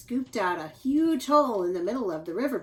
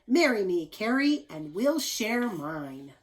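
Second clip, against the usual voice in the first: louder start easing into a slow tender close; proposal; 3 dB louder than usual. Acted. Paul proposing to Carrie, slow and tender. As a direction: soften on the last words. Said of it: "Carrie agreed".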